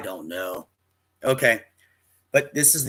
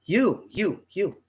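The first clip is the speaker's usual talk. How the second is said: high, foreign-sounding shopkeeper voice; imitating shopkeeper; 7 semitones higher, slower than usual. Storyteller imitating the German saleswoman singling him out, high and insistent. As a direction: mimic the pushy saleswoman calling him out. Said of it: "She goes".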